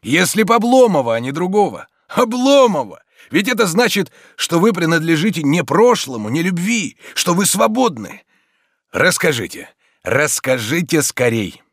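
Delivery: high, eager and relieved; animated, nearly merry urging; almost cheerful. A narrator's reading. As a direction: press her gladly to tell all. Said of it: "Покойным, почти весёлым голосом".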